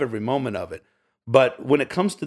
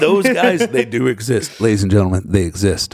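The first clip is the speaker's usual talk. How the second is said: loud, booming address to the crowd; loud announcement; 7 dB louder than usual. Real, not acted. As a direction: proclaim it like a ringmaster. Announcing to audience.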